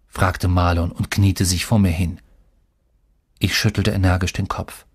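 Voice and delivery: plain reading voice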